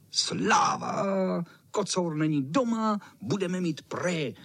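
high excited shout; gleeful cheering. Acted. Boys cheering that the cat isn't home. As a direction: cheer like the cat's away. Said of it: "volali myši".

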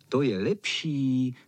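ordinary delivery, nothing marked

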